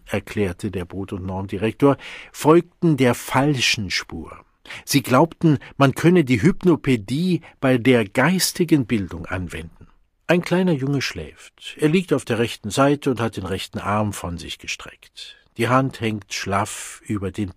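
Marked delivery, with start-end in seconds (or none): 2.3-13.4 loud lecturing. Acted. Director lecturing students, emphatic.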